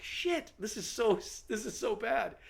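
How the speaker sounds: high, slow mock panic; panicked thought. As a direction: inner panic, half under breath. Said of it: "And I'm like".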